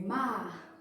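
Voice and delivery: "mar" ending in a soft h; normal R. Shown as a demonstration. Teacher showing parents her own accent, normal R. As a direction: say "mar" with an unrolled, h-like R. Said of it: "O R normal".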